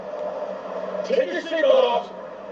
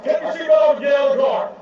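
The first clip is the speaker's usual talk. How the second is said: shouted command. Real, not acted. Officer shouting at driver.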